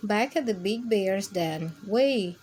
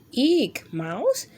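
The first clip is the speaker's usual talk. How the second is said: a higher, louder startled kitten squeal; startled eek; 3 semitones higher, 3 dB louder than usual. Acted. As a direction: jump at the sight of the mouse.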